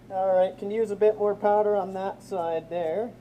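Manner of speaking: muffled behind a respirator mask; through a respirator. Real, not acted. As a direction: talk through a face respirator. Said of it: "Hopefully you guys can hear me through this respirator".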